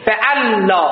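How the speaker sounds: فعلا with a doubled lām, fe-al-lā; word demo. Shown as a demonstration. Teacher shows the class how to say فعلا. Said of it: "وزنش که فعلاست".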